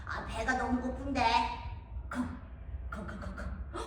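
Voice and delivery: a sly, hungry wolf with a howl and sneaky chuckles; the hungry wolf sniffing out the piglets; hungry big bad wolf. (돼지고기 냄새를 맡는 배고픈 늑대)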